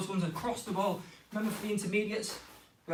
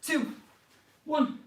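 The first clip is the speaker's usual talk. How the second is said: counting down, each number higher and louder; rising countdown; 5 semitones higher, 3 dB louder, much slower than usual. Real, not acted. Coach counting kids down to stop the drill, rising call.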